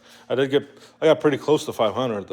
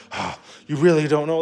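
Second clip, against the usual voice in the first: imitated scornful worker, higher pitch; mock condescending; 5 semitones higher, 4 dB louder than usual. Worker answering a customer's simple question, mock condescending. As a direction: act out a rude employee's disbelief. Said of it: "some of those people can be assholes".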